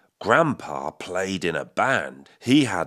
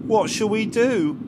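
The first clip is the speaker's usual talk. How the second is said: worried question; 11 semitones higher, 3 dB louder than usual. A narrator's reading. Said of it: "asked Dad".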